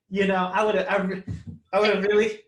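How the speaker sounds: loud, laughing brag; playful excitement. Real, not acted. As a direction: ham it up for laughs. Joking about hitting a pose.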